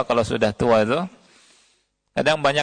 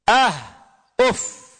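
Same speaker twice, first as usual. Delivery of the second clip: dismissive ah; 6 semitones higher than usual. Retold or imitated. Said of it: "jangan sekali-kali mengucapkan apa?".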